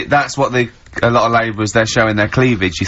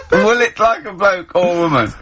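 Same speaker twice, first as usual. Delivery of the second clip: higher-pitched mocking echo through laughter; amused, incredulous repeat, pitched up; laughing mimicry; 6 semitones higher than usual. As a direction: laugh while parroting the line back. Laughing as they echo the odd title.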